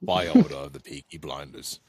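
hammed-up Peaky Blinders thug announcing a takeover; Arthur Shelby impression. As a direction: bark the order like Arthur Shelby.

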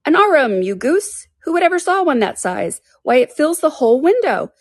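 high-pitched exasperated scolding; scolding Rabbit. A narrator's reading. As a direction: scold a foolish servant. Rabbit scolds his servant.

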